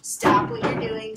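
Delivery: high, loud and slow warning; the scared dog shouts stop; screaming dog. Retold or imitated. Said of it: "They are screaming at you".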